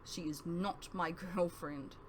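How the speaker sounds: soft, slow mutter with a little laugh; embarrassed mutter. Acted. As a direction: mumble it, half laughing, embarrassed. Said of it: "I muttered".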